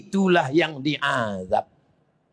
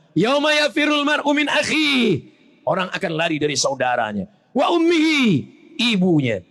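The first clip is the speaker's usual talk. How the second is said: Quran recitation; 3 semitones higher than usual. Acted. Preacher reciting the verse to the crowd, intoned. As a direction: intone each phrase ringing out.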